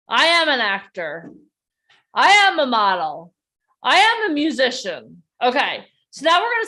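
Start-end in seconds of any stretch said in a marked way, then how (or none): 0.1-5.2 emphatic, wholehearted declaration with a weighty AM; like you mean it. Shown as a demonstration. Coach leading a group affirmation, said like they mean it. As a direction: declare it with conviction, leaning on AM. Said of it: "say it like you mean it".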